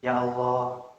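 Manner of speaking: low, soft, deflated call; doubtful. Acted. Preacher imitates worshipper doubting after prayer, subdued. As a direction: murmur it with faith drained away.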